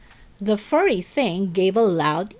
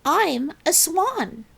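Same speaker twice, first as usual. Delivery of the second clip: higher and more assured, slow; louder; 9 semitones higher, slower than usual. A narrator's reading. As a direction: say it like you believe it. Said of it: "She said it louder".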